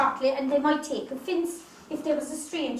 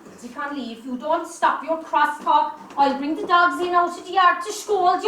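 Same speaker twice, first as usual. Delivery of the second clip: rising into a loud angry threat; 7 dB louder than usual. Acted. Widow threatens to set the dogs on Dinsey, furious. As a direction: drive the pest out with a shout.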